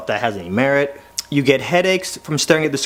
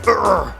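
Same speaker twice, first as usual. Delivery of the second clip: impatient growl; 5 semitones higher than usual. Retold or imitated. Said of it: "her patience is just like".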